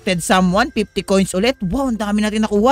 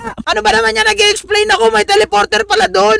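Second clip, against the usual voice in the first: exasperated laughing; 11 semitones higher than usual. Real, not acted. Caught while explaining, frustrated laugh.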